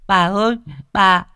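put-on high, loud tearful child's wail, fast at the end; a terrified child sobbing for grandma; crying child. A narrator's reading. Small child crying to grandma for help. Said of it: "nó khóc ầm ĩ".

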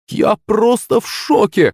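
put-on high, drawn-out girlish delight; thrilled exclamation. A narrator's reading. Girl after her dragon flight, thrilled exclamation. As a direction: pitch it way up and stretch it, awestruck. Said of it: "воскликнула Юленька".

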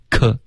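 "科" with a soft, lightly released k; gentle k in "科", no hard puff. Shown as a demonstration. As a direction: ease off the burst on "科", keeping it voiceless. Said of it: "他们可以发得更软".

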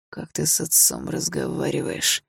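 slow, soft, menacing hiss; father hissing at his son; hissed rebuke. Acted. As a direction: seethe through the words. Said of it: "прошипел тот".

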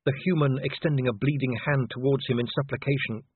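plain reading voice

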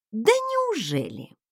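slow, silky, sly "Да неужели?"; coaxing, mock-sweet question; insinuating. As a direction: purr it with a sly edge. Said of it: "вкратчиво вымолвила я".

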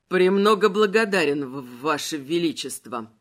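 shivering with cold, teeth chattering. Acted. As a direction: stammer through chattering teeth. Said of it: "стуча зубами". (дрожа, стуча зубами)

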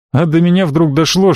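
usual speaking voice

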